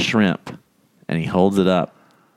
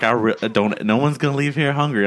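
higher-pitched chef in the style of a famous pop singer; lightly mock pop-singer voice, rising higher; Chef Jerome impression; 5 semitones higher than usual. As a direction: imitate the chef insisting, voice lifting. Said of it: "make him sound like a famous pop singer".

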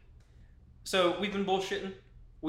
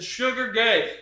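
raised, louder mock taunt; heckler's call; 6 semitones higher, 6 dB louder, slower than usual.

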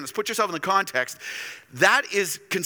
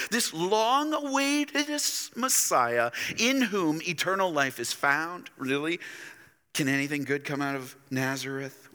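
incredulous scoffing. Acted. Preacher voicing crowd doubting Jesus's claims, mocking.

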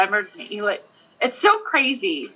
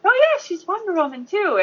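higher, quick eager introduction; high, excited boast; 11 semitones higher than usual. Retold or imitated. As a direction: rattle it off brightly, proud. Retelling Lou's bragging introduction.

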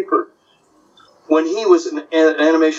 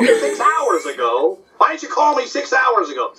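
Jack Benny exasperation; 8 semitones higher than usual. Retold or imitated. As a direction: drag out the disbelief like Benny. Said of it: "doing Benny and Rochester".

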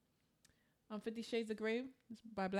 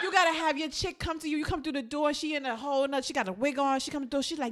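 comedian's bit; 6 semitones higher, 7 dB louder than usual. Retold or imitated. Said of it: "He was like".

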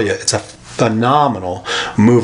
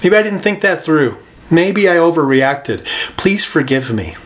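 humble apology; 4 semitones higher than usual. Pretend. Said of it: "I can say".

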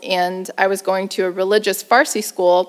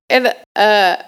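ordinary talk

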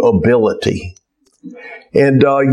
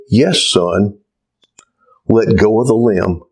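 lower, calm voice from nowhere; voice of God; 5 semitones lower than usual. Acted. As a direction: answer gently from above. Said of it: "And the voice said".

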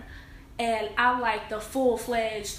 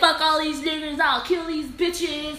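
raised, higher-pitched mock tough-guy threat; 4 semitones higher, slower than usual. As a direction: imitate a man talking big and threatening. Imitating man's threats before he cried.

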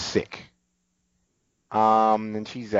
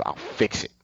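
quiet mumble; 2 semitones lower, 5 dB quieter than usual. Retold or imitated. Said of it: "Tulip says".

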